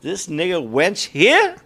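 slow, half-hearted villain line; passionless line reading. Acted. Co-host tries the villain's line, no passion in it. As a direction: read the threat slowly without conviction. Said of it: "there was no passion in it".

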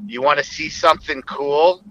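lightly voiced kid asking to show a trick; childlike. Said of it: "almost like a kid".

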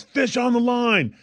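high, slow mock yell of a deckhand; retold yell. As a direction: call it out across the boat. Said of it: "And then the guy yells".

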